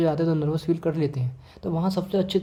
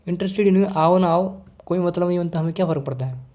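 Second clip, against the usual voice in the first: dismissive, couldn't care less; indifferent. Shown as a demonstration. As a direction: brush it off as no concern of yours. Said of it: "अगर मैं interested ही नहीं हूँ". (बेपरवाही से टालते हुए)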